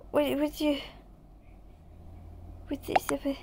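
unvoiced whisper. Real, not acted. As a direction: whisper the question.

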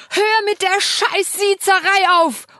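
loud, high furious shout; yelling into the phone. A narrator's reading. Wife yelling at her husband to stop the formal address, furious shout. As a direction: bellow it at him down the line. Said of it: "brülle ich ins Handy".

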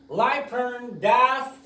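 life and death를 and가 n이 되게 아주 느리게; 천천히 life n death; slow reduced and. Shown as a demonstration. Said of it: "and on 되니까". (느린 축약 시범)

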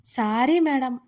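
a slow, cheeky drawn apology; lightly drawled sorry. Acted. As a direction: stretch "sorry madam" out teasingly. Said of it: "సాగదీస్తూ".

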